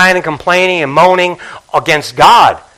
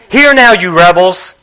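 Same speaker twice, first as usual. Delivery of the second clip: louder, stern scolding of the rebels; angry rebuke; 6 dB louder than usual. Retold or imitated. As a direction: bark it at the crowd in frustration. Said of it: "He's upset".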